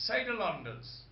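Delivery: Saidlanders with an extra vowel, "Saida-landers"; friend's pronunciation. Retold or imitated. Quoting a friend's charming way of saying it, Saidlanders stretched to "Saida-landers". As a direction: say Saidlanders in four syllables, "Said-a-landers". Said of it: "thinking of my friend who says".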